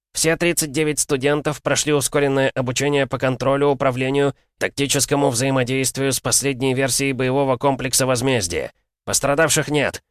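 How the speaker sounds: high, firm military report; drill sergeant report. Acted. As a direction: report to the colonel at attention. Sergeant's formal report to dean.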